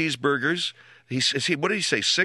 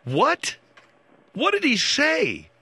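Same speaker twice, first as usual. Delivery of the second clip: high, slow, baffled asking; mock baffled; 9 semitones higher, slower than usual. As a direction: play it dumbfounded, drawn out. Host mocks garbled words.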